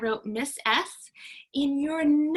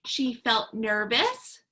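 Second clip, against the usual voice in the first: acting nervous; 3 semitones lower, slower than usual. Shown as a demonstration. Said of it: "So let's practice".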